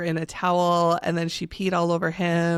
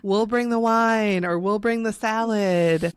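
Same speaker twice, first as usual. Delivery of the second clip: slow, drawn-out breezy reassurance; reassuring friends; 3 semitones higher, slower than usual. Acted. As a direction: play friends happily offering to cover it. Imagined friends reassuring her.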